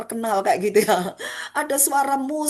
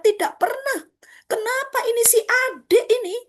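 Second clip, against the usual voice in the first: protest. Acted. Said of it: "Protes dia".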